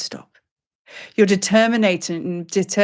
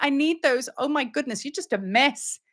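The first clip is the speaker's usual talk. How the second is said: higher-pitched, mildly panicked fretting; frantic pleading; 7 semitones higher than usual. Acted. Seeker drops all the seeds, mildly frantic.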